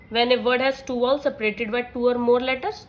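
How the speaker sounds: very slow, deliberate dictation of a rule; reading a rule aloud. Acted. Teacher dictating the phonics rule to her class, slow and measured. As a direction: read each word slowly so students can copy it.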